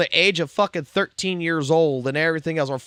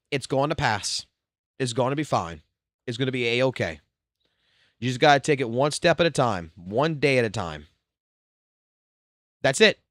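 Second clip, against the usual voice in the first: reassuring; 3 semitones lower than usual. Retold or imitated. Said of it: "like I told my stepson".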